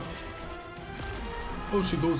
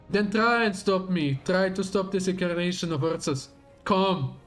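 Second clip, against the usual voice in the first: slow theatrical villain menace; 4 semitones higher than usual. Acted. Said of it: "is your evil monologue finally over".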